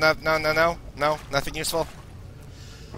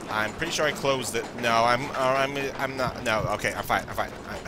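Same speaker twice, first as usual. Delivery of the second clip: shaken, much softer self-reassurance; quiet; 8 semitones lower, 9 dB quieter than usual. Real, not acted. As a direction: murmur it to calm yourself. Low sanity, rattled.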